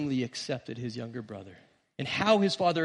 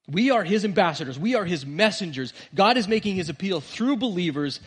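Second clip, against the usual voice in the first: emphatic preaching; 4 semitones higher, 7 dB louder than usual. Real, not acted. Preacher's rising emphatic build.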